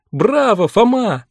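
loud cheer with his name; shout. A narrator's reading. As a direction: shout it like a fan. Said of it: "закричала Линда".

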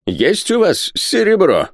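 high, drawn-out urgent cry; excited cry. A narrator's reading. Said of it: "крикнул тот".

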